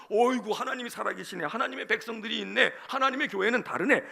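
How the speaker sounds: loud, exclaiming admiration; acted wonder, punching each phrase; marvelling praise. The world seeing Jerusalem rebuilt, loudly marvelling.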